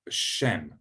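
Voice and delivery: Shem with a long sh and short e; Shem, one syllable, sh held; Hebrew Shem. Shown as a demonstration. Teacher models Shem for the class, long sh. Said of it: "that's sh".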